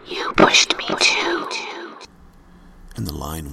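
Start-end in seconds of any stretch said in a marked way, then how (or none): 0.1-1.5 low, slow eerie whisper; icy whisper. Acted. Ghost girl whispering to her last victim, low icy whisper. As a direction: breathe it like a ghost. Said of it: "whispered into the phone".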